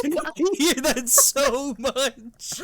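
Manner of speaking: drawn out through a laugh; slow, laughing repeat of the line. Real, not acted. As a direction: say it slowly while cracking up.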